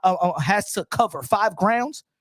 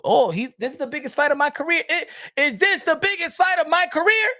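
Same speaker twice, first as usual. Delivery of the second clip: mock hype; 5 semitones higher than usual. Voicing a fighter's hype.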